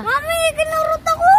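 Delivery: high whining to mom; whiny complaint. Real, not acted. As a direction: tattle to your mom. Child complains to mother.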